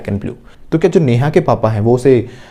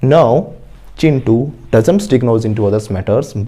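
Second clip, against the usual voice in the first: very slow, word by word, for students to repeat; slow model sentence; 3 semitones lower, much slower than usual. Shown as a demonstration. Teacher modelling an answer for the class, very slowly. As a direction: spell each word out slowly like a dictation. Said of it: "तो बोलो".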